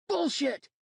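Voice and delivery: high, loud spat accusation; furious shout. Acted. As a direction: fling it at him in rage. Accusing roommate of lying.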